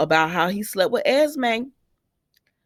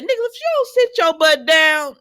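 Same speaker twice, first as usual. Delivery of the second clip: higher, louder scolding call at the screen; scolding shout; 9 semitones higher, 4 dB louder than usual. Real, not acted. Viewer yelling at Nicholas on the TV, loud scolding. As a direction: yell at him to sit down. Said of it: "And I said".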